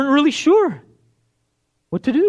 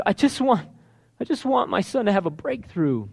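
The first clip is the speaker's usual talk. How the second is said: pleading hush; 6 dB quieter than usual. Acted. Father's inner longing.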